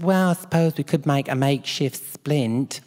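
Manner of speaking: mock-doubtful nurse suggestion; imitated set nurse. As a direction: offer it reluctantly as the put-on nurse. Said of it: "She said".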